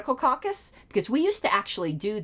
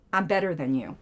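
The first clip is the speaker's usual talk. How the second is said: lower, lightly voiced smug quote; a hint of smug superiority, quoting a pundit; Anna Kasparian impression; 6 semitones lower than usual. Quoting a pundit at her rival, lightly smug. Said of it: "as Anna Kasparian would say".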